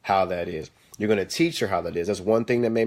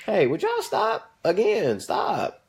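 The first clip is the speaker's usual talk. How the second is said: calling out; 8 semitones higher, much slower than usual. Real, not acted. Calling out to the kids.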